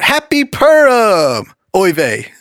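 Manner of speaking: high, drawn-out mock Jewish greeting; badly faked Jewish accent, starting high and slow; attempted Jewish accent. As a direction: belt out a hammed-up Jewish impression. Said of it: "like a Jewish impersonation".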